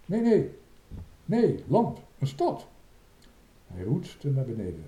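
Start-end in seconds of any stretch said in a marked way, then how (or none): 0.1-2.7 high, excited self-correction; high-pitched lookout shouts; excited calling. A narrator's reading. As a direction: call it out in rising amazement. Lookout excitedly corrects his sighting.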